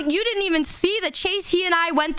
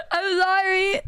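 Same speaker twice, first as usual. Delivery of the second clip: laughing apology; 4 semitones higher, slower than usual. Real, not acted.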